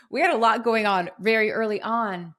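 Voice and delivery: laughing while telling it; a real laugh through the words. Real, not acted. Laughing about twins.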